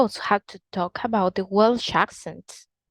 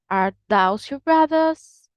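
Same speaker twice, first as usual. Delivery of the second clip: those as "thows", Birmingham style, pitched up; Birmingham accent; 4 semitones higher than usual. Shown as a demonstration. Teacher giving the example question, Birmingham accent. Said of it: "but in Birmingham".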